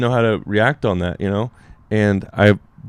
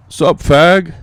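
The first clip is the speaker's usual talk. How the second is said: mock heckle, pitched up; heckler from the back; 7 semitones higher, 4 dB louder than usual. Friend heckling the comic from the back of the room, mock call-out. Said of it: "this voice all the way in the back".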